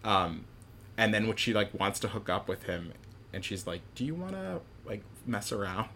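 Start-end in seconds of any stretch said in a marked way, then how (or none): 4.0-5.9 mock coy ask. Abby propositions William in retold scene.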